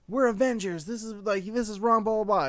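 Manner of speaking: lightly voiced self-righteous Avenger; mock hero speech. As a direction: parody a lofty team speech. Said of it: "There is no, like".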